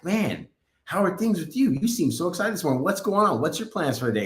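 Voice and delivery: high-pitched imitation of an eager questioner; fired up, excited. Coffee worker asking him his plans, excited retold voice. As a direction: retell it with high, eager curiosity. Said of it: "she was fired up, excited".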